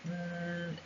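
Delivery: "mm" as a soft buzzing th, tongue on teeth; th sound. Shown as a demonstration. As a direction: hum a voiced th between the teeth. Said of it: "pronounce it like that".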